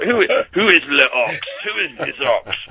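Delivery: lightly put-on French accent. Footballer imitating the French in the dressing room, mock French accent. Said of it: "that was my French accent".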